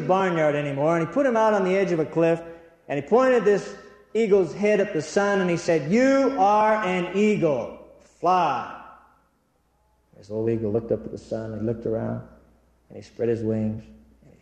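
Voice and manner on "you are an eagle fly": urgent retold command. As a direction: urge it to take flight, word by weighty word. Final retold command on the cliff.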